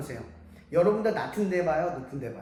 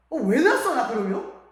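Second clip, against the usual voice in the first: higher, louder mock backtalk; acted angry retort; 3 semitones higher, 4 dB louder than usual. Child talks back to nagging mother, mock indignant. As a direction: throw it back like a defiant child.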